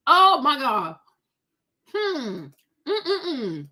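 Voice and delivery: ordinary talk, nothing marked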